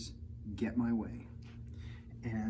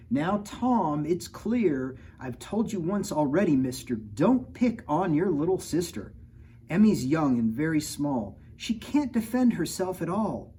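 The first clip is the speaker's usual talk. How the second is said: higher, louder firm mom voice; lightly voiced scolding mother; 5 semitones higher, 5 dB louder than usual. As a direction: scold the son gently but firmly. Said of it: "hear my mother say".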